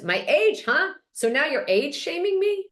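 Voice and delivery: high, mock-indignant comeback; offended challenge. Acted offence at age remark.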